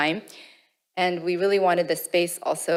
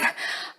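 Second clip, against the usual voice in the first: nervous laugh; 6 dB quieter than usual. Real, not acted. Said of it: "Sorry, I'm a little nervous".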